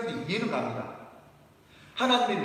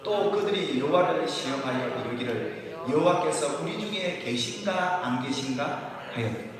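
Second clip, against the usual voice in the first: scripture read aloud together; 2 semitones lower than usual. Shown as a demonstration. Pastor leading the congregation through the verse, slow and measured. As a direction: lead the church in reading the verse, slow. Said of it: "같이 한번 읽어볼까요?".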